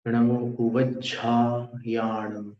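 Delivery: "ओवज्झायाणम" slow, with a long plain jha; careful model pronunciation. Shown as a demonstration. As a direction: draw out "ओवज्झायाणम" syllable by syllable, no i-glide. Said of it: "ओवज्झा है".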